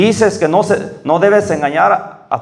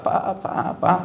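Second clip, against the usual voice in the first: put-on child calling papa; 4 semitones higher, 7 dB quieter, slower than usual. Child fallen, crying for father.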